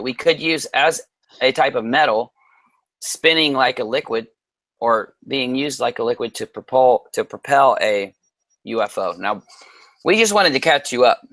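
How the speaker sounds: talking with a swollen tongue; thick tongue, words a bit slurred. Real, not acted. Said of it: "my mouth is swollen".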